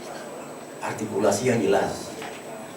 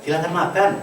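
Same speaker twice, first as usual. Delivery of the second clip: "Silahkan makan" lifted higher, rising on "makan"; "Silahkan makan" pitched up with a rise on "makan"; higher rising offer; 6 semitones higher than usual. Shown as a demonstration. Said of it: "Contoh lain misalnya".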